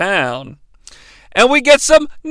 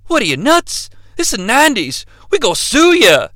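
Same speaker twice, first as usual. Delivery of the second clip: mocking mechanic; 4 semitones higher than usual. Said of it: "mechanic's punchline quote".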